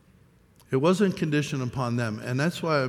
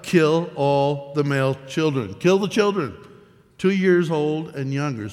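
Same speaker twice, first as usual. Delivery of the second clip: raised voice imitating a command, climbing at the end; mock royal decree; 3 dB louder than usual. Preacher voicing Herod's decree, imitated command.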